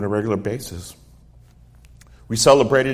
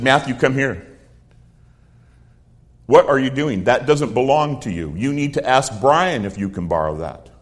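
firm, raised scolding, easing off at the end; stern uncle; 2 semitones higher, 4 dB louder than usual. Retold or imitated. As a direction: lightly imitate an uncle telling off a child. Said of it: "stopped me with a stern voice".

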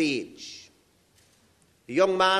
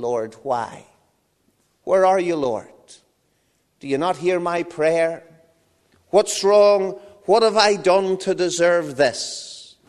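louder, pleading lament; crying to the Lord; 4 dB louder than usual. Acted. Joseph dragged toward Egypt laments to God, crying. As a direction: mourn aloud, asking why. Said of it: "he's crying".

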